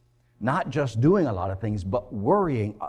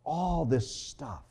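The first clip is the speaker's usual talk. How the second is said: gentle slow rebuke; 7 dB quieter, slower than usual. Acted. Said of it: "He said".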